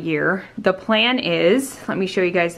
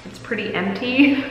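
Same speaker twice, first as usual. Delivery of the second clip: echoey room. Real, not acted. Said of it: "sorry for the echoiness".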